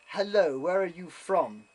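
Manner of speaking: lightly acted judge, loud opening then drawn out; trial judge. Judge questioning an audience member, mock-commanding. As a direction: call the court to attention, imitating a judge.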